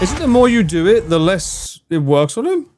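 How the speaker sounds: frantic shout. Real, not acted. Monster chasing, shouting question.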